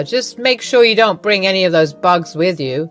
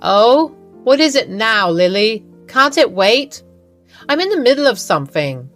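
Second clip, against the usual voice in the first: impatient and put-upon, louder; annoyed mother-in-law; 3 semitones higher, 4 dB louder than usual. Acted. Mother-in-law irritated by Lily's call, curt and louder. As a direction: brush her off like a nuisance. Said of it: "She seemed annoyed".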